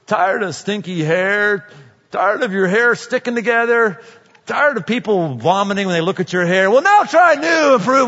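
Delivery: commercial voice. Retold or imitated. Preacher mocks the rule of three in ads, hammed-up pitch. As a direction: sell it like a cheesy TV ad. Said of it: "watch commercials".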